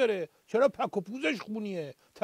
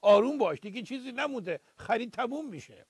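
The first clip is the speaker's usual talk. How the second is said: soothing grandpa. Retold or imitated. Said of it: "پیرمرده گفت".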